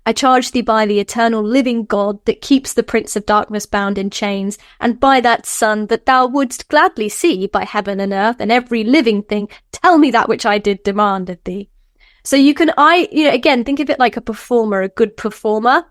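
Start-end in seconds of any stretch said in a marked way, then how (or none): 0.0-11.7 lightly voiced commanding conjuration; understated ritual command, steady and measured; solemn invocation. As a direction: recite it like a formal charge to a demon. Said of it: "the thing that you have to do".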